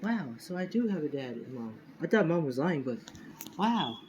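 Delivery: light imitation of a delighted child; happy child. Little clone learns he has a dad, mildly happy wonder. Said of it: "very happy and stuff".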